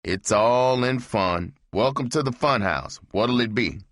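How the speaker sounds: a hint of a mocking host; lightly voiced joking barman; bartender's welcome. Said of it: "He said".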